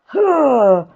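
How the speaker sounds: short, forceful "huh"; energy grunt. Shown as a demonstration. Coach demonstrating energy to a class, a forceful "huh". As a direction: push out a burst of breathy oomph. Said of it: "Just putting a bit of "huh".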